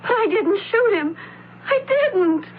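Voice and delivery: desperate, crying insistence; tearful protest. Acted. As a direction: near sobbing denial. Accused of shooting, protests tearfully.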